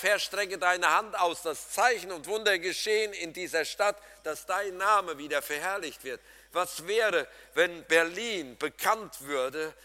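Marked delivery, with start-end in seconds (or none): 0.0-6.2 loud, higher, pleading prayer to God; a big loud appeal, Herr at full voice; fervent loud prayer. Shown as a demonstration. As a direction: cry out to the Lord for the city. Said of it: "Die Betonung liegt nicht mehr drauf".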